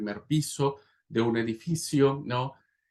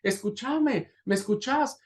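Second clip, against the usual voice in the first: desperate calling out; 9 semitones higher than usual. Acted. Father calls to his son trapped in the fire, desperate calling. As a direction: call out urgently for a lost son. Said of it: "le grita con todas sus fuerzas".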